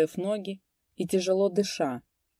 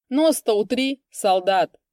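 higher, loud taunting shout; 4 semitones higher, 6 dB louder, slower than usual. A narrator's reading. Vaska jeering at Egor, loud taunt. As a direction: yell a jeer at him. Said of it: "крикнул ему Васька".

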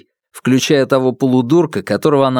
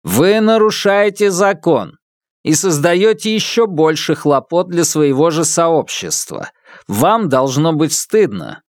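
stern robot, slow and higher; scolding machine voice, deliberate; metallic robot voice; 6 semitones higher than usual. A narrator's reading. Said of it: "металлический голос Муаллима".

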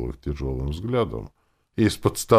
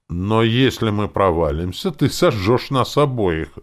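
higher, louder merry banter; cheerful; 6 semitones higher, 7 dB louder than usual. A narrator's reading. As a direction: toss it out gleefully. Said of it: "весело проговорил Перч".

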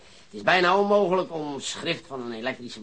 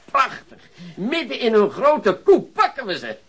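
higher and louder, laughing through the words; gleeful triumph; 9 semitones higher, 6 dB louder than usual. Acted. Detective to colleagues, savoring the coming arrest: laughing triumph. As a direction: crow with delight at the trap. Detective imagines catching robbers red-handed.

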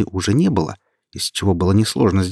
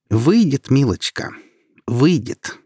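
self-assured, higher and louder; confident; 6 semitones higher, 3 dB louder, slower than usual. A narrator's reading. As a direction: sure of her win, pressing the point. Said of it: "уверенно заявила она". (уверенно, с нажимом)

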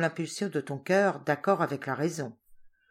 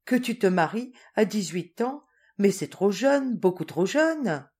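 worried; 3 dB louder than usual. Acted. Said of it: "Jacques, inquiet".

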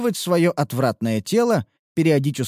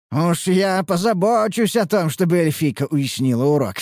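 mustache twirling villain; 3 semitones higher than usual. Acted. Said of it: "злодейски рассмеялся Харан".

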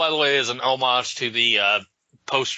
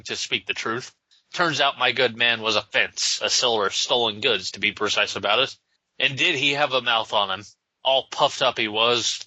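put-on Irish accent. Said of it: "Frank Miller's idea of Irish people".

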